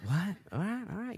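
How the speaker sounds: light mock surprise going quiet; mock stunned what. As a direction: caught off guard, then accept it. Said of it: "I was like".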